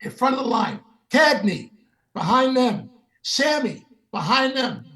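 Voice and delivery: high, brisk call down a line; calling out orders. Retold or imitated. Sinatra lining up stars in the green room, calling out. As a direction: imitate someone ordering people into place.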